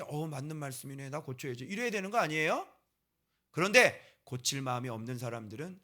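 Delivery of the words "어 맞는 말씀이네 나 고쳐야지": a touch softer, meekly agreeing; mild, meek self-correction; humble acceptance. Acted. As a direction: say it like a humble churchgoer nodding along. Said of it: "겸손하게".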